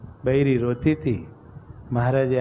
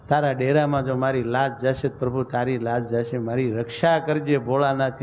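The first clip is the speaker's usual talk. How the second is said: tearful prayer. Acted. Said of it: "નારી રોવા માંડી ગઈ".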